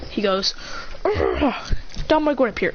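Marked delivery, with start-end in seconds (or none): 1.0-1.7 low, rough pained "ah"; acted hurt growl; groan on impact. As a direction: groan as the blast hits. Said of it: "exploding on impact with Zabuza".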